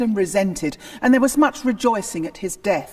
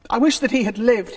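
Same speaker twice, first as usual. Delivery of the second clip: louder grieving outburst; burst out; 4 semitones higher, 5 dB louder than usual. Acted. King bursts out over the cardinal's death, grieving. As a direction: let it burst out of him. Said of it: "Henry burst out".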